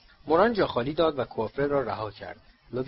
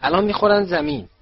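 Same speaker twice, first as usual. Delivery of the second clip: loud, higher cry of alarm; Hermione shouting; 5 semitones higher, 9 dB louder than usual. A narrator's reading. Girl seeing two fliers about to crash, shouting. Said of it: "هرماینی فریاد زد".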